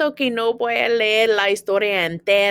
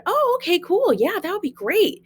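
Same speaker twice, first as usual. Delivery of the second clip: quoted reply; 9 semitones higher than usual. Retold or imitated. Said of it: "And I said".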